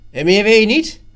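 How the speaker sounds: sharp, suspicious questioning; nasty-sounding. A narrator's reading. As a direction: demand it with an ugly edge. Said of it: "Jan klonk wat lelijk".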